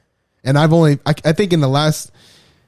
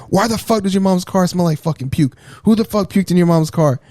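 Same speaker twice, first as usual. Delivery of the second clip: raised-pitch imitation of a scolding parent; mock angry stepfather; 5 semitones higher than usual. Stepfather grilling son who feigns sleep, mock angry. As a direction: retell the interrogation in an indignant higher voice.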